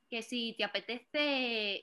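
slow mock Spaniard accent; imitated Spanish accent. Spanish date inviting her out, imitated Spanish accent. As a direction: mimic a Spaniard's accent, drawn out. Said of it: "yo no puedo con ese acento".

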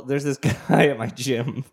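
breaking into a laugh mid-sentence; giggling through the line. Real, not acted. First take, laughing mid-line.

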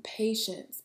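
whispered. Shown as a demonstration.

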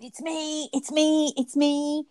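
high, excited cry at the radio; thrilled it's me, called out high; excited shouting. Retold or imitated. Listener hearing her name on a podcast, shouting excitedly. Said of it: "I was shouting at my radio".

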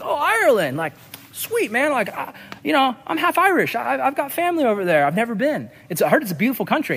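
high-pitched friendly interest; perking up, friendly. Retold or imitated. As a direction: imitate a neighbor suddenly brightening. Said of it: "kinda perked up".

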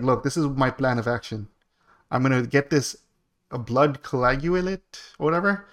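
lightly mimicked Indian accent. Retelling the exterminator's plan to friends, mild mimicked Indian accent. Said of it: "why'd you say that with an accent?".

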